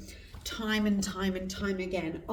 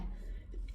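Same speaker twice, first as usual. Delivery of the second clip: throat clearing; 8 dB quieter than usual. Real, not acted. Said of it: "my throat's gone".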